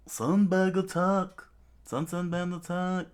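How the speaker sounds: high, urgent yell; acted cry of alarm; loud scream. A narrator's reading. Child raising the alarm about bandits, screaming. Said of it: "there was a loud scream".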